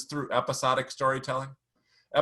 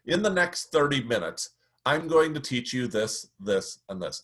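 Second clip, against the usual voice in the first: sample road map. Shown as a demonstration. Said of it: "So this sounds like this".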